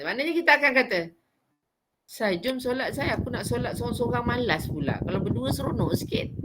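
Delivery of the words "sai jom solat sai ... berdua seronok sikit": casual, coaxing intonation; friendly invitation. Shown as a demonstration. Friend coaxing a friend to pray together, friendly invitation. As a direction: invite a friend along without blame. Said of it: "Ah, beza tak?".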